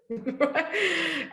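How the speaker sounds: high incredulous "Right?"; mock shocked parent; stunned disbelief.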